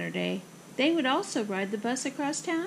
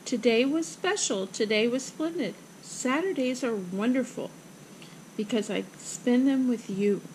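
gentle, steady reassurance; reassuring. Acted. Girl consoles her mother, reassuring. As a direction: comfort her in an even voice. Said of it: "Ava reassured her".

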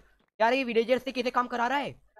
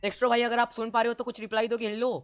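raised voice to reach someone; calling out; 3 semitones higher, 4 dB louder than usual. Real, not acted. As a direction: call loudly, checking if they can hear. Calling to player who may not hear. (ज़ोर से पुकारते हुए)

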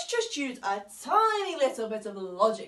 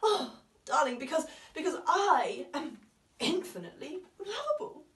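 laughing, near tears. Acted. Laughing through hurt.

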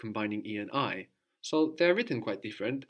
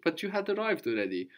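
higher, brisk exclamation; exclamatory; 6 semitones higher, faster than usual. Shown as a demonstration. Teacher showing the student an exclamatory example, exclamatory. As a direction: exclaim it quickly, pitched up. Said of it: "when it's kind of exclamatory".

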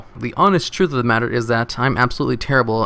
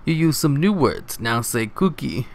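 Cookie Monster voice; 3 semitones higher than usual. Retold or imitated. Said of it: "still as Cookie Monster".

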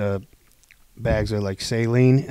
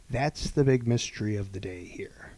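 mock whisper of a nurse; hushed retold whisper from the nurse; 3 semitones lower, 6 dB quieter than usual. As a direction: whisper it like a secret. Nurse's deadpan reply, retold.

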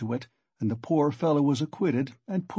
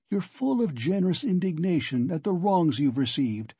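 a lightly voiced, higher, probing investigator; sly magistrate needling a suspect, a little higher; knowing investigator; 4 semitones higher than usual. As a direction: press him gently with what you know, pitched up.

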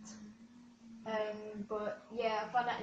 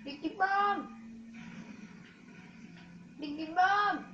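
hyped catchphrase shout; 8 semitones higher than usual. Real, not acted. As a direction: yell the catchphrase with glee.

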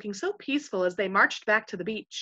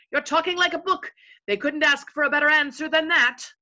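high, admiring yes-man; cheering chorus; 7 semitones higher, 6 dB louder than usual. A narrator's reading. Followers praising their chief's reply, admiringly. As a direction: gush over the boss's answer.

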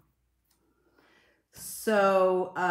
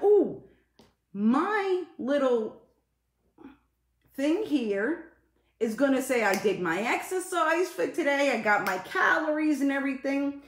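high, louder hopeful self-talk; hopeful excitement; 8 semitones higher, 4 dB louder than usual. Retold or imitated. Streamer retelling hopes for the exercise watch, high and excited. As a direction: mimic your own eager hoping, pitched up. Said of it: "So I'm hoping, I'm like".

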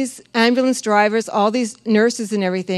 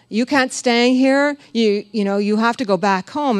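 curt refusal; 2 semitones higher, 3 dB louder than usual. Retold or imitated. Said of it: "lady who's not very happy".

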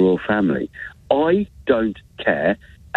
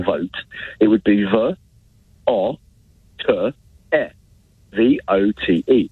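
vote spelled V, O, T, E, slow letter by letter; spelling it out; slower than usual. Shown as a demonstration. Caller spells vote to mock an accent, slow and deliberate. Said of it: "I was taught to spell".

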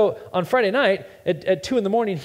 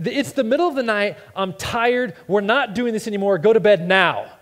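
elevated dad voice; 5 semitones higher, 4 dB louder than usual. Retold or imitated. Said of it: "elevated dad voice".

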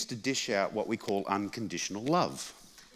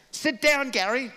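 put-on high, loud commanding old mother; bossy mum; 13 semitones higher, 4 dB louder than usual. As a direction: order him to sit like mum. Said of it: "she'd say".

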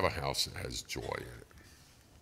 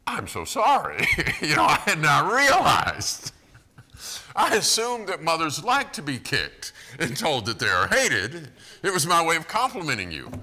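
much higher, louder mock-polite toddler apology; sarcastic apology; 11 semitones higher, 10 dB louder than usual. Toddler's imagined apology to his mom, hammed-up high voice. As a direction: ham up an absurdly polite apology. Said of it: "he doesn't go".

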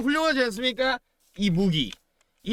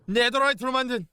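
ordinary talk

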